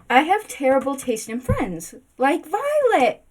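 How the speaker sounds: mock dramatic, dragging out Violet. Repeats the line, first stretched out.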